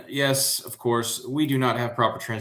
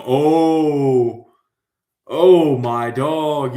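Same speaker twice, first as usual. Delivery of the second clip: excited oh; 3 semitones higher, 7 dB louder, much slower than usual. Real, not acted. Excited exclaim.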